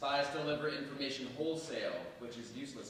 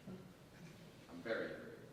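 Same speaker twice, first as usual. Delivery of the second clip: quiet admission of fear; 6 dB quieter, much slower than usual. Acted. Confessing fear of execution.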